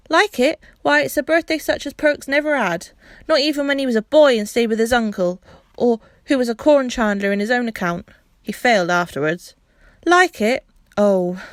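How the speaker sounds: high, loud gushing praise; overwhelmed gratitude. Acted. Grateful mother thanking the children, high and gushing. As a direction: pour out thanks in a rush. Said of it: "said all sorts of things".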